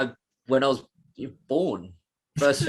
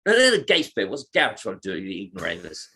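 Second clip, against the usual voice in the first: a light imitation of Carl scolding Gareth, quick; imitating Carl; 5 semitones lower than usual. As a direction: rattle it off quickly the way Carl says it. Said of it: "I'll try and say it right".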